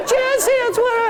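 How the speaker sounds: very high, squealing disbelief; starstruck squeal. Retold or imitated. Starstruck writer shrieks in disbelief at the coach's request, very high.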